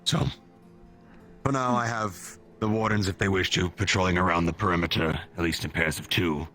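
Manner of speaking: commanding officer giving orders; military officer. Acted. Colonel gives orders.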